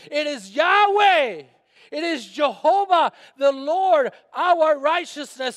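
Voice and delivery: loud, slow proclaiming of God's names; preaching shout. Acted. Pastor proclaiming God's names to the church, loud. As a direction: proclaim each name like a trumpet.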